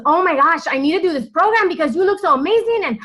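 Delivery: put-on high, fast Hispanic-accented voice, excited; imitating an excited Hispanic woman's accent; mock Hispanic accent, gushing and quick; Hispanic accent impression. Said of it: "So excuse my accent".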